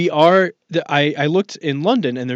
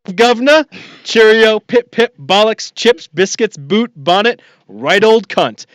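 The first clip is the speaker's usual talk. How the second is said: hammed-up British accent, much higher and louder; mock British accent; 8 semitones higher, 8 dB louder than usual. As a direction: overdo a posh British caricature. Mock British title read.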